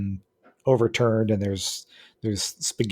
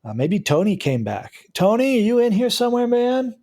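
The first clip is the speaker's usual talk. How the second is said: male voice; 6 semitones higher than usual. Acted. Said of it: "a male voice says".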